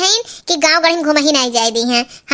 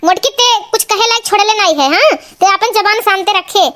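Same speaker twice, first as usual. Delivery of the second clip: higher-pitched cross telling-off; angry scolding; 4 semitones higher than usual. Acted. Mother-in-law silencing her daughter-in-law, angry scolding. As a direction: order her to hold her tongue, irritated. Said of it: "इतना गुस्सा ना".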